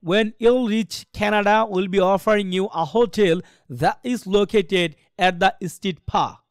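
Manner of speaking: slow English imitating a native exam speaker; measured, imitated native English accent with puffed P; imitating IELTS listening speakers. Shown as a demonstration. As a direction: read it like a native-English listening recording, very slowly. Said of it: "এমনি তারা বলবে".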